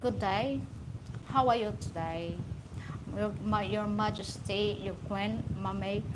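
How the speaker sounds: lightly imitated British royal accent; King Charles. Speaker mimicking King Charles greeting royalty, mock British accent. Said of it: "King Charles, you know, the way they speak".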